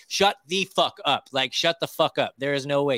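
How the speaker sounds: retold can't-believe-it reaction; emphatic disbelief. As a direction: punch it out in friendly disbelief. Retold astonished reaction to guest.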